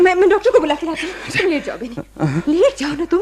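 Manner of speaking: hurried nervous babble; flustered panic. Acted. Wife rushing to fetch the doctor in panic. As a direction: rush it out, fast and breathless.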